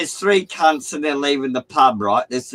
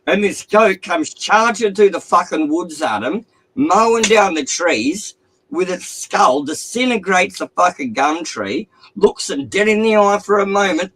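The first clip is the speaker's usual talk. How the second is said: higher, louder, building excitement; excited storytelling; 5 semitones higher, 3 dB louder than usual. Acted. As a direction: tell it like an epic chase. Narrating the goat's charge.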